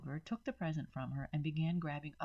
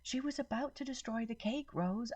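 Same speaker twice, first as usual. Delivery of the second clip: raised voice; 8 semitones higher than usual. A narrator's reading. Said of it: "I said loudly over the yelling".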